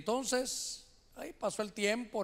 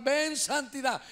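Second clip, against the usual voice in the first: mild pulpit cry, drawn out; calling out; 3 semitones higher, slower than usual. Retold or imitated. Fervent worshipper beside him claims holiness, calling out. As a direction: call it forth with raised pitch. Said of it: "Imagínense que está a la par".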